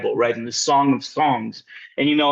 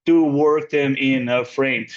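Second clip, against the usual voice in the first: slow line-broken reading; 3 semitones lower, much slower than usual. Shown as a demonstration. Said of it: "So in other words".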